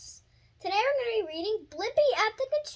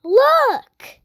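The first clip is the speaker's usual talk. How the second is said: excited call; 4 semitones higher, 15 dB louder than usual. Acted. Blippi spots excavator, calls out.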